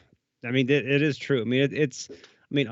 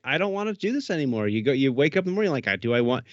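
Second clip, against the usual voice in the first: whiny, higher mock moaning about the gun; miserable shooter; 4 semitones higher than usual. Shooter dreading another day with a broken gun, whiny and high. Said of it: "having a miserable time".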